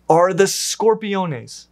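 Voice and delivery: scorpiones said slowly, the Spanish way; Spanish pronunciation. Real, not acted. Narrator slips into Spanish reading a Latin name, Spanish "scorpiones". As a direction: say "scorpiones" as a Spanish word, drawn out. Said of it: "that's how you'd pronounce it in Spanish".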